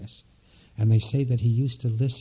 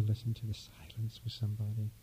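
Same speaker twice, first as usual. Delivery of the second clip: whisper; 12 dB quieter than usual. Real, not acted. Inviting the congregation into silence.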